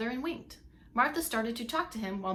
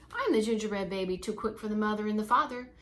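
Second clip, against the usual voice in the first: put-on boastful gingerbread baby taunt. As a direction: crow about every escape, then dare them.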